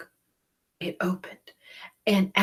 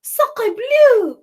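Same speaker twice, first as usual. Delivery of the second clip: high, loud French exclamation; a French-accented duck; French duck crying out; 13 dB louder than usual. Acted. Duck crying out in French. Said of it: "cried the duck".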